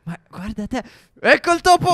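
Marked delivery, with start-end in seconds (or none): 1.2-1.9 high laughing gotcha; excited laughing shout. Acted. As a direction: laugh as you spot the mouse. Trova il topo ridendo.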